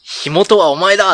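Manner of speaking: loud, slow, high dramatic accusation; detective's catchphrase. Acted. TV fire investigator accusing the arsonist, dramatic shout. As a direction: nail the culprit with a slow ringing cry. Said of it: "決め台詞としては".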